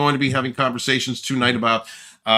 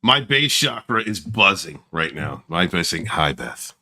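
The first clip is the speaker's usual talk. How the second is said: deep soul singer voice; 7 semitones lower than usual. Pretend. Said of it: "you dropped into your soul singer voice".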